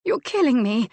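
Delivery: high, loud, breathless cries of his name; gasped cries. A narrator's reading. Woman in bed gasping her lover's name, high and loud. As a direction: gasp his name out, climbing. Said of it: "she gasped".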